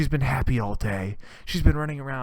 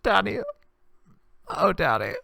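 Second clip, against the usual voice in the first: put-on high, wailing teenage girl; whiny teen daughter; 9 semitones higher than usual. Daughter wailing to her dad about Blake, high and whiny. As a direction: sob it out like a heartbroken teenager. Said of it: "she goes".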